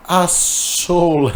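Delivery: high, slow word dissolving into laughter; breaking into real laughter; cracking up. Real, not acted. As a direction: lose it at the silly title. Reader cracks up at the title.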